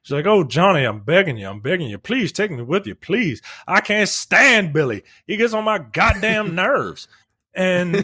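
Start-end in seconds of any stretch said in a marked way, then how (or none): 0.3-7.1 hammed-up pleading woman; mock tearful begging. Woman begging Johnny to take her, mock tearful plea. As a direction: plead with put-on desperation, rising higher toward the end. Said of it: "she turns on the tears".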